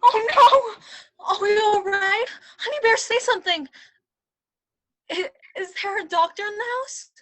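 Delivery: panicked. Acted. King panics over queen.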